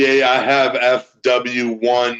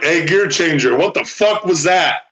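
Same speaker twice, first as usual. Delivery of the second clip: mock Australian; 4 semitones higher than usual. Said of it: "I'll do it".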